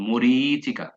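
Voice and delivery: মরিচিকা sounded letter by letter; spelling-pronunciation. Shown as a demonstration. Teacher drills the spelling of মরিচিকা. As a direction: say মরিচিকা as it is written. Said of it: "আপনি এইভাবে পড়বেন".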